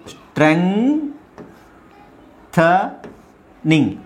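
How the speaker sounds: ಸ್ಟ್ರೆಂಥನಿಂಗ್ slowly, with s t r joined in one cluster; slow clear demo. Shown as a demonstration. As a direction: stretch out ಸ್ಟ್ರೆಂಥನಿಂಗ್, s t r said together. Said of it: "ಎಸ್ ಟಿ ಆರ್ ಒಟ್ಟಿಗೆ ಹೇಳ್ಬೇಕು". (ಎಸ್ ಟಿ ಆರ್ ಒಟ್ಟಿಗೆ ನಿಧಾನವಾಗಿ)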